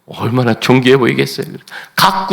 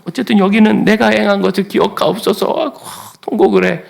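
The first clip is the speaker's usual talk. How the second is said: normal talking voice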